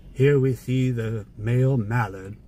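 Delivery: lightly voiced British nature narrator; a hint of British wildlife documentary voice; David Attenborough. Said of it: "Sorry about the British accent there".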